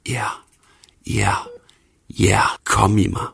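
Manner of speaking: whispered in short, separate bursts; ophidset hvisken. A narrator's reading. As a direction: whisper with urgency, pausing between words. Kvinden på toppen af ophidselsen. (indtrængende hvisken med pauser)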